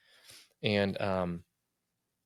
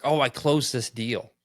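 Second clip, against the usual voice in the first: louder, boastful self-praise; mock bragging; 3 semitones higher, 5 dB louder than usual. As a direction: puff yourself up, mock-proud. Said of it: "I'm braggadocious".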